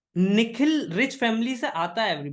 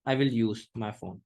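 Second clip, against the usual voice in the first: slow, sure I will; 9 semitones lower, much slower than usual. Shown as a demonstration. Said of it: "mobile तो use करूंगा".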